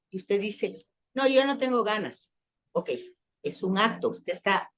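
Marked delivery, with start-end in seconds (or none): 1.2-2.3 higher-pitched mock refusal; lightly acted unwilling reply. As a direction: play someone turning down a favour.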